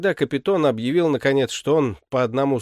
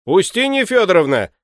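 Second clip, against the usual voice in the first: louder and higher, calling to his wife; 8 semitones higher, 7 dB louder than usual. A narrator's reading. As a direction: call out across the house. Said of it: "крикнул он громким голосом своей жене". (butler calls his wife: громкий зов)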